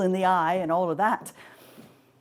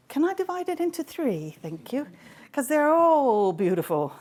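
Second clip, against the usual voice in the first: flustered Paris; 7 semitones higher than usual. Acted. Paris pleading to split it.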